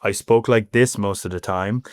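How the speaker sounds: lightly flattened Irish accent, carefully enunciated; smooth out the Irish accent a little. Shown as a demonstration. Irish newcomer showing how he used to talk, flattened accent. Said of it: "became very, very flat".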